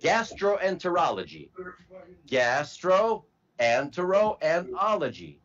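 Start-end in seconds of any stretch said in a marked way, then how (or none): 2.3-5.4 slow, "Gastro", "Entero", "ology" set apart by pauses; broken into parts. Shown as a demonstration. Teacher splitting a term into parts.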